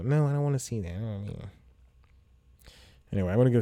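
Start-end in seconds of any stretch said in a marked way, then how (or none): 0.0-1.5 mock refusal. Imitating the person who refuses the movie outing, mock protest. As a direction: play a childish refuser, pitched up. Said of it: "I can't be that person to go".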